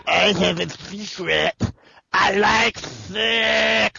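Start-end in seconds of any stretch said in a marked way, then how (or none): 2.1-4.0 shouted. Pretend. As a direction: yell it out. Joke shout after secret.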